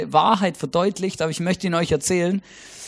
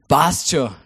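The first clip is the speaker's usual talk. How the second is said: Austrian catchphrase; 5 semitones lower than usual. Shown as a demonstration. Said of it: "die Österreicher lieben es einfach zu sagen".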